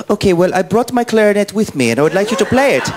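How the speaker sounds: high-pitched, tentative fan question; imitated fan at microphone. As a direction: put on a high, polite fan voice. Voicing same fan's request.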